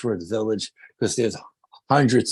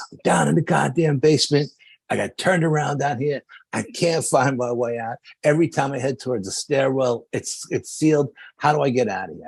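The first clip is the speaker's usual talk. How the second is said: higher-pitched mock panic; imitated freak-out; 4 semitones higher than usual. Teammate lost in the basement radios for help, imitated panic. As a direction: act out a lost man freaking out. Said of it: "Anthony's freaking out".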